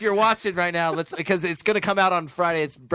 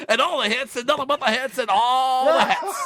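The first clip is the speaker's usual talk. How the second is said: radio announcer; 8 semitones higher, 4 dB louder than usual. Pretend. Hamming up radio slogan.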